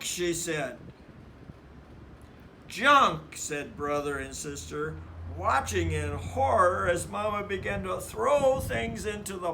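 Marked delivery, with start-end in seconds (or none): 2.7-3.4 loud, higher shocked echo; shocked gasp of a word; horrified. A narrator's reading. Brother and sister horrified at Mama, shocked echo.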